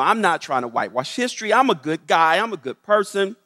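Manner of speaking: mock well-meaning protest; defensive objector. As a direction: plead your good intentions as a doubter. Voices an imagined listener objecting.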